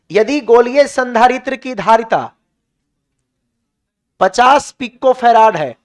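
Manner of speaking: slow, spaced-out dictation, each word set apart. Shown as a demonstration. Teacher dictating a question to his class, slow and spaced. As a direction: read it out slowly so the class can write. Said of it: "एक question लिख लो".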